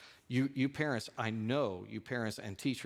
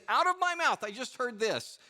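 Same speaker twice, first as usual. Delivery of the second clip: very high, loud imitation of an upset mother; hammed-up distress, starting high and loud; upset caller; 11 semitones higher, 5 dB louder than usual. Upset mother telling her pastor what she heard, exaggerated distress. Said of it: "she was really upset".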